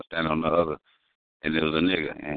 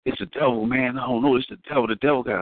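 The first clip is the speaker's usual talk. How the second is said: nervous stammering guy; 5 semitones higher than usual. Retold or imitated. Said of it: "Why is we talking like this?".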